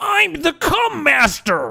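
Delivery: put-on shrill, nasal yell. Answering a chat request for an impression: Gilbert Gottfried impression. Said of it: "Gilbert Gottfried?".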